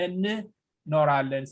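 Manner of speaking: እንኖራለን said slowly, both N sounds drawn out; slow model of እንኖራለን for a learner; slow demonstration. Shown as a demonstration. Teacher showing student a tongue-twisting word, እንኖራለን said slowly. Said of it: "say it slowly, like".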